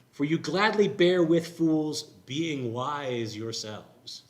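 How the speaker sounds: slow, dripping sarcasm; sarcastic. Acted. Pastor reading Paul's mock praise to the church, sarcastic. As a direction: say it with air quotes, mocking. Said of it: "You should hear the sarcasm in there".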